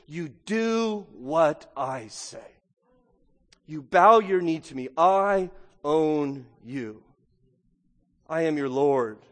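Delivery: slow, stern voice of a ruling lord; commanding Jesus. Acted. Preacher voicing Jesus demanding obedience, slow and stern. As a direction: lay down the law slowly as the risen Lord.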